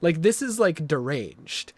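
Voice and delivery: loud, high disbelief; shocked outburst. Retold or imitated. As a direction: blurt it out in shock. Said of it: "I'm like".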